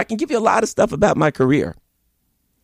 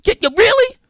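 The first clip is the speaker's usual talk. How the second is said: much higher, mocking "really?" with a rising end; sarcastic disbelief; 3 dB louder than usual. Real, not acted. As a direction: scoff at it like you can't believe it. Reacting to the report, incredulous.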